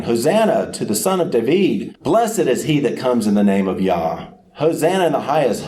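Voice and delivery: crowd shouting praise. Retold or imitated. Crowd hails the Son of David, shouting. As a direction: call it out like the crowd at the gate. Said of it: "the multitudes began crying out and shouting".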